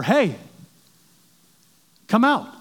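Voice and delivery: mock holler to the other side; imitated yell. Germans yelling over to British troops, imitated calling out. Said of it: "they began to yell over".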